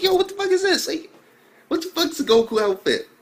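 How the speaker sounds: high-pitched, baffled questioning; acted confusion. Reviewer puzzled by the talk of Goku outfits, acted confusion.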